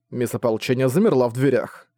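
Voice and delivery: ordinary delivery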